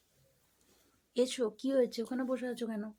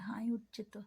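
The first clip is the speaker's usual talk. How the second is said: whisper; 7 dB quieter than usual. Real, not acted. Mother cooing at a yawning pet.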